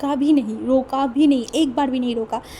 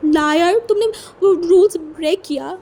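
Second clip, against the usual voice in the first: loud, higher, accusing cry of लायर; angry accusation; 6 semitones higher, 6 dB louder than usual. A narrator's reading. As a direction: throw the blame at him. Angry accusation between lovers. (गुस्से में ऊँची आवाज़ में इल्ज़ाम)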